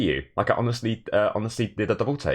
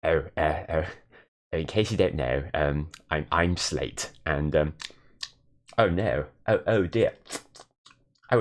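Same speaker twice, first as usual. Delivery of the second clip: mock impression of himself. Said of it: "replicate Limmy's god-awful impression of me".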